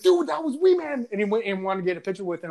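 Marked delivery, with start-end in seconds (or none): 0.0-1.1 retold buddy's excitement. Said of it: "my buddy was just like".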